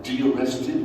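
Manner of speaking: de-arrested asked with a puzzled rise; puzzled echo. Retold or imitated. Man in the car echoes the cops' word, puzzled rising question. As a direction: repeat de-arrested as if you've never heard it.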